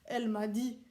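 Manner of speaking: a hint of a strict army instructor addressing recruits; Swiss soldier teacher. The speaker as a Swiss soldier teaching the kids, lightly stern.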